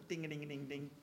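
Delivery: imitated ringing alarm bell. Wary man hearing of a problem lad, mock alarm bells. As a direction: ring out the dings like a bell. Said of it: "the alarm bells are".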